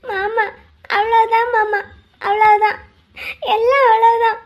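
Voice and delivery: tearful, helpless lament; crying. Acted. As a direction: sob through each short phrase. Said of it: "எதுக்கு பாப்பா இப்ப அழுகுற". (அழுகையோடு புலம்பல்)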